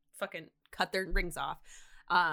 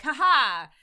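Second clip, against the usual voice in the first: mock laugh; 5 semitones higher, 10 dB louder than usual. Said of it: "they're like".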